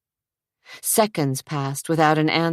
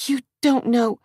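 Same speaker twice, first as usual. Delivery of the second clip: protesting; 9 semitones higher than usual. Acted. Adria protests.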